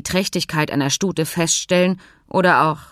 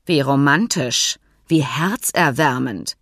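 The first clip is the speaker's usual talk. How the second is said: leise Drohung hinter Spott; gefährlich ruhig. Acted. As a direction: ruhig und langsam sticheln. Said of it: "Finks Stimme war nun gefährlich ruhig". (Fink spottet gefährlich ruhig über Hans' Liebesgeschichte)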